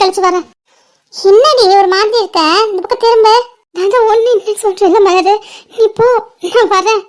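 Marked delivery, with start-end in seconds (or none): 3.8-7.0 holding back tears, brushing a friend off; faltering voice. Acted. Hiding tears from worried friend Malar, faltering voice. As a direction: falter while insisting all is fine. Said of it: "உன் வாய்ஸ்ல ஒரு மாதிரி தடுமாற்றமா இருக்கு".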